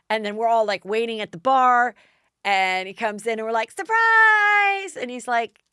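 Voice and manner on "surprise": loud, high group shout of surprise. Retold or imitated. Guests jumping out at the bar, a loud high shout. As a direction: yell it as he walks in. Guests greet the guy arriving.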